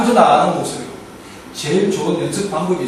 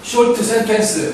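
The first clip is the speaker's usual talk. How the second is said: slow, for repetition; 3 semitones higher, slower than usual. Shown as a demonstration. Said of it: "따라하겠습니다".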